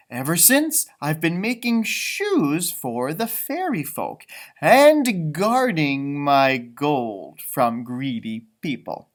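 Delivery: slow, proud little leprechaun telling his past; leprechaun storytelling. Acted. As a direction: tell it like an old fairy shoemaker.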